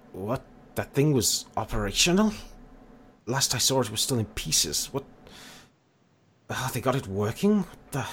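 mildly incredulous disbelief, with pauses; halting surprise, voice lifting on the key words. Acted. Non-player character learns the machine was operational, incredulous. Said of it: "looks at you a little bit incredulously and goes".

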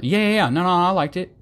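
high, rushed yeah-no babble; hammed-up nervous waffling. Mocking a nervous person answering a lunch question, flustered. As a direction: spit out the yeahs and nos in a flustered jumble. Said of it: "they're trying to save themselves".

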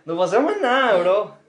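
emphatic. Acted. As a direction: throw up your hands, say it loud. Repeats the line more emphatically.

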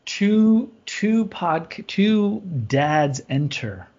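slow, booming movie-trailer line; mock announcer. Dad mock-announcing a podcast Thunderdome, slow and grand. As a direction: intone it like a Thunderdome promo.

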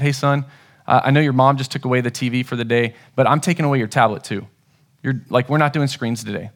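low, even, measured parent voice; real calm tone. Retold or imitated. Dad telling his son no screens today, real calm tone. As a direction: keep it calm and controlled while disciplining. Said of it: "I had a real calm tone".

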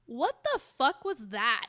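loud laughing disbelief. Retold or imitated. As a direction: blurt it out while cracking up. Coworker reacting, cracking up.

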